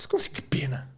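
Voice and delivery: hushed, whispered disbelief; baffled whisper. Retold or imitated. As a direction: whisper it as a puzzled aside. Retells his baffled reply to her.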